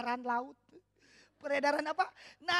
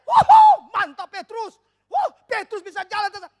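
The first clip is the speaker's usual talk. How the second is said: loud whooping cheer; friends cheering; 7 semitones higher, 21 dB louder than usual. Retold or imitated. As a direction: whoop and cheer him on across the water. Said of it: "Pasti temannya teriak".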